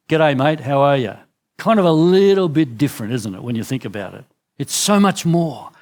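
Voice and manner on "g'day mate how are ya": casual Aussie greeting. Retold or imitated. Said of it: "our Aussie way of".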